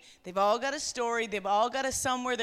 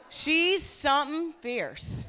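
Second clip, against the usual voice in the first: Newfie demo; 2 semitones higher, slower than usual. Shown as a demonstration. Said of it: "I want you to practice that".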